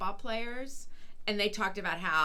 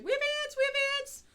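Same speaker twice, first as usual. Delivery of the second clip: imitating Sean. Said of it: "He's like".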